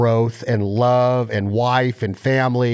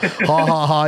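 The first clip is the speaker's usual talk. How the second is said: retold laugh; 3 semitones higher, slower than usual. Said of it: "laughing his ass off".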